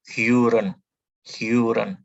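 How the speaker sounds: Huren with a rounded front vowel; Huren, lips rounded, firm; modelled German Huren. Shown as a demonstration. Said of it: "Bukan Horen ya".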